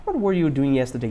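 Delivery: "What" starts up, falling away through "yesterday"; question intonation. Shown as a demonstration. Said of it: "tem que fazer essa entonação". (entonação de pergunta, descendo até "yesterday")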